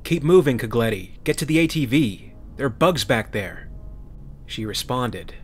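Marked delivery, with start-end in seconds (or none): 0.0-3.7 louder, higher frantic yell; panicked marine yelling to a comrade; panicked shout. Acted.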